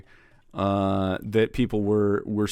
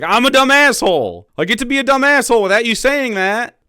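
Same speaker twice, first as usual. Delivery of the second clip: high, loud mocking Australian voice with fat B; mock Australian accent; 11 semitones higher, 8 dB louder than usual. Mocking the Antifa guy in an Australian accent. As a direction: ham up an Australian whine. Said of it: "in an Australian accent and with the fat baloney B".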